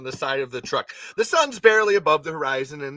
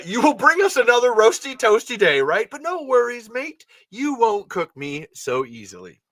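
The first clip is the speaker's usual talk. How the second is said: Leon greeting the sun, plain-ish; 8 semitones higher, 5 dB louder than usual. Acted. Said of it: "we're not doing that".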